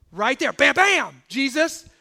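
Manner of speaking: loud, slow bam bam; punchy bam. Acted. Preacher shouting bam at the congregation. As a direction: land each bam like a blow.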